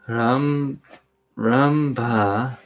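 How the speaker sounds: deliberate read-aloud with spaced phrases; measured storybook recital; scripture narration. A narrator's reading. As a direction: read the tale out carefully, pausing between images. Co-host reads scripture aloud.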